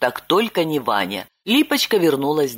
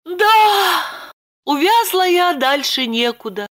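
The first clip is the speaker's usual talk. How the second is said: high cry sinking to a resigned sigh; Lipochka doomed; 13 semitones higher, 3 dB louder than usual. A narrator's reading. Lipochka admitting she's trapped, high then resigned. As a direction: give up, sighing. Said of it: "обречённо вздохнула Липочка".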